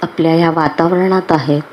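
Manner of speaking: unhurried meditation guide with long pauses; guided meditation. Acted. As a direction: guide them calmly into relaxation, phrase by phrase.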